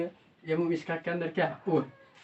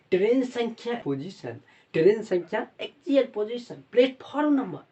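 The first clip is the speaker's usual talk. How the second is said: over the intercom; 3 semitones higher than usual. Pretend. Mock train announcement, odd timbre.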